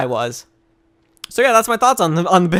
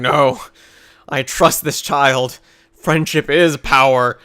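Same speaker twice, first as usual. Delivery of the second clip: slow, solemn mock sincerity; slow, solemn mock conviction; mock solemn villain; 4 semitones lower, slower than usual. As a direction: intone it like a convert reciting a creed. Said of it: "he's like".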